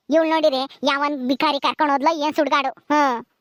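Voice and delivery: low, weepy mother's lament; tearful lament. Acted. Mother grieving the daughter who ran away, low and tearful. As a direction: mourn her lost hopes through tears. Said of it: "ನೀನ್ ಯಾಕಮ್ಮ ಅಳ್ತೀಯ?".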